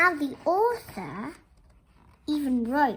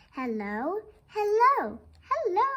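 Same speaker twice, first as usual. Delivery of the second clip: calling out; 4 semitones higher than usual. Acted. The wind calling with no one replying, calls climbing higher. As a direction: call out, waiting for an answer.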